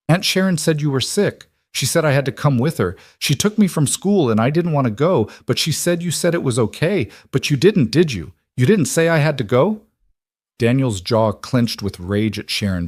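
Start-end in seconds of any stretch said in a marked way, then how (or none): 0.1-9.8 higher, lightly voiced child, upset and asking; a worried child needing reassurance; anxious little girl. A narrator's reading. Daughter asks father if he let her go, anxious.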